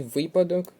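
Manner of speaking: випадок stressed on opening ВИ; випадок as ВИ-падок; stress on first syllable. Shown as a demonstration. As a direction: hit ВИ in випадок. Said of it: "наголос на перший склад".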